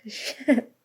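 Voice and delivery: sighed, breathy whispered curse under her breath. Acted. Ashamed girl to old crush, whispered curse. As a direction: let it slip out on a sigh, barely voiced.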